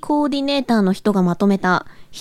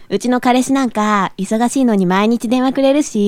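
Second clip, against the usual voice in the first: japanese gyaru slang. Acted. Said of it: "ギャルっぽく無理があるよね".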